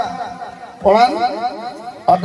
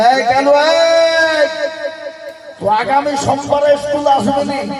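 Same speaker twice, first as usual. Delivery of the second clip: shouting a name; 5 semitones higher than usual. Retold or imitated. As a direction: holler across the schoolyard. Calling out to the boy Kalu.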